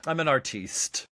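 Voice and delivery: artiste said the French way, ar-TEEST; a hammed-up French artiste; mock artiste. Showing off the fancy word artiste. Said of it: "an artiste with a capital E".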